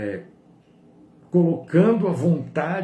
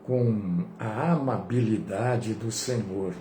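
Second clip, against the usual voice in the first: prayer; 7 semitones lower, 4 dB quieter than usual. Real, not acted. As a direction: lead the congregation in a hushed, unhurried prayer. Leads the closing prayer.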